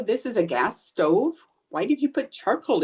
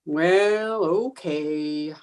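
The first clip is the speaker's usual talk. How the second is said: drawn-out reluctant agreement, sinking lower; glum surrender; 4 semitones lower, much slower than usual. Acted. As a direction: give in with a long, sinking moan. Gives in unhappily.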